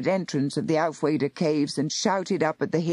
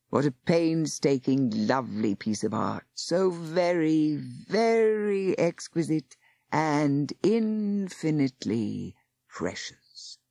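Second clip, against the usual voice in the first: mock admiration; slower than usual. Warlock mocking praise before destroying it.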